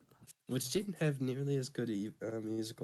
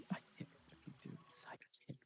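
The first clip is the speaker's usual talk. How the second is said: breathless laughing; 18 dB quieter, faster than usual. Real, not acted. Cracking up, can't go on.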